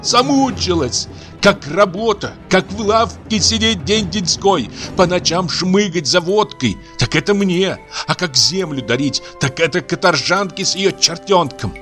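high, tearful angry tirade; furious crying rant. Acted. Aksinya shouting at the old man through tears, furious. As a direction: scream her grievance at the family. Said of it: "кричала она изо всей силы".

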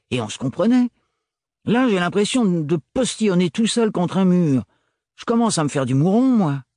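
a rough friend who misses the silent talks; worried gruff Renard. Acted. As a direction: scold kindly, speeding up at the end. Narrator voices Renard.

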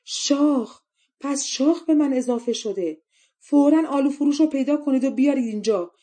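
high, loud outraged wail; anguished shriek. A narrator's reading. Princess finds horns in the mirror, anguished shrieking. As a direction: cry out in horror and rage, pitched high. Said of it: "جیغی دردناک از ته دل کشید".

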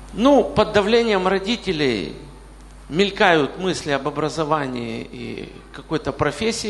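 ordinary talk

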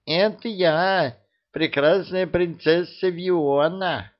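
high, slow put-on squeak of a lady; playful squeaky falsetto; squeaky fake princess. A narrator's reading. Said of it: "пропищал Алёша".

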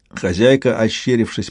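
ordinary delivery

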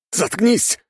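high sharp yell; a soldier yelling back at his commander; shouting. A narrator's reading. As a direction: cut him off with a cry. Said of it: "раздался крик".

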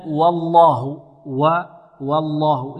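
slow والله, thin "wa" before heavy lam; light waw. Shown as a demonstration. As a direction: keep the waw of والله unrounded. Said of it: "لا نفخم الواو". (ترقيق الواو في والله)

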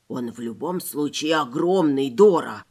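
low, grumbling rabbit voice; lightly voiced grumpy rabbit; ворчливый кролик Вася. A narrator's reading. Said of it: "зашипел на меня Вася". (низкий ворчливый голос кролика)

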